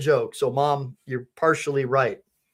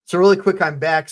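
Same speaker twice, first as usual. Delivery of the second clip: louder restart; 3 semitones higher, 5 dB louder than usual. Shown as a demonstration. Streamer restarting his greeting to viewers, louder. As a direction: redo the greeting louder and a bit higher. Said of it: "Hold on".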